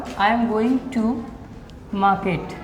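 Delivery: each word spaced out slowly for students to note; slow classroom dictation of an English sentence. Shown as a demonstration.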